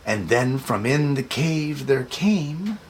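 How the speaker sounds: put-on lilting read-aloud for children. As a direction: read it like bedtime to little kids. Reading picture book aloud.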